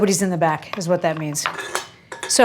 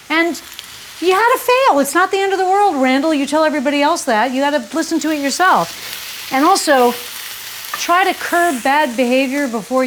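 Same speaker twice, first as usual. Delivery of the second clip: much higher voice, lecturing herself; self-scolding pep talk; 5 semitones higher than usual. Pretend. Telling herself off about the shoot, higher mock-stern lecture. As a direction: scold yourself like a fussy mentor.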